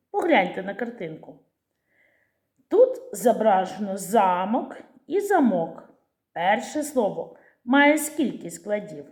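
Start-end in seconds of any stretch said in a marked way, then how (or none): 4.0-4.8 "замок" as ZA-mok, weight on the first syllable; stress on first syllable. Shown as a demonstration. Teacher naming the castle picture, "замок" stressed on the first syllable. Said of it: "На перший склад". 5.2-5.9 "замок" as za-MOK, weight on the last syllable; stress on second syllable. Shown as a demonstration. Teacher naming the padlock picture, "замок" stressed on the second syllable. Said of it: "наголос відомий як чарівник".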